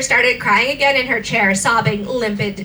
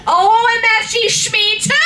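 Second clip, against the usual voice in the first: mock shriek; 9 semitones higher than usual. Girl shrieking at Satan in mock delight. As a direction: squeal it out. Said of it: "I shrieked".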